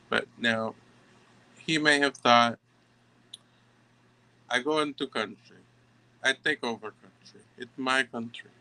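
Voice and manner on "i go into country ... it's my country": lightly put-on Russian accent. Tarot reader voicing his thoughts about taking over, in a light Russian accent. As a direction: slip into a mild, amateur Russian accent. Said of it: "I did the accent".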